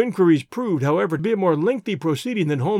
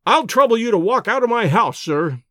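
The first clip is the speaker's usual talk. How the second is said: higher, louder, cold fury; furious; 5 semitones higher, 5 dB louder than usual. A narrator's reading. Doctor throwing Holmes out of his house, furious and loud. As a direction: order him out of the house in a rage. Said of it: "his dark face was crimson with fury".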